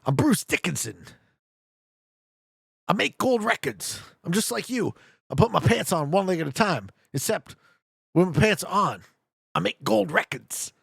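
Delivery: halting impression with odd pauses; stop-start Walken delivery; Christopher Walken. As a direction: break the lines into separate pieces, Walken-style. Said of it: "Christopher Walken's".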